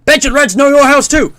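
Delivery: loud, high Cold War American announcer; hammed-up American drill instructor; American accent. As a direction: shout it like an American propaganda reel. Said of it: "like, an American voice. This is, like, Cold War".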